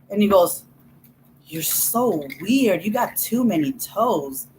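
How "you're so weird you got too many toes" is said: put-on kid's taunt. Little brother's taunt retold.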